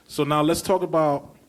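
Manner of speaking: Brooklyn accent slipping into post; natural Brooklyn accent. Real, not acted. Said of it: "see my, my Brooklyn accent".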